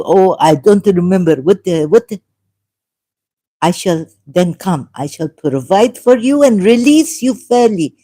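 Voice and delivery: ordinary talk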